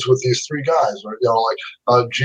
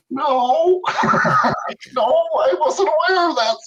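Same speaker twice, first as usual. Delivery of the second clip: embarrassed laughing yelp; flustered laughing no; 11 semitones higher, slower than usual. Retold or imitated. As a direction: blurt it out through a nervous laugh. Caught out, flustered reply to Spielberg.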